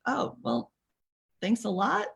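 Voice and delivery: mock-grateful put-down; sarcastic thanks. Stung caller answering a preachy friend, sarcastic. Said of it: "And it's like".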